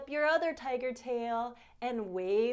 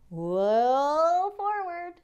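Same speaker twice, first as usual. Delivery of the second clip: excited whoa; 5 semitones higher, 6 dB louder, much slower than usual. Acted. Tigers lunging forward.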